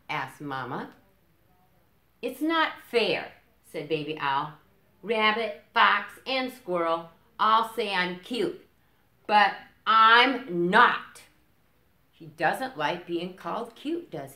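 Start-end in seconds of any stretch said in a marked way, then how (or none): 2.2-11.2 loud, high, slow whine; loud, high, sulky little owl; whiny complaint. Acted. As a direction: sulk and protest to Mama.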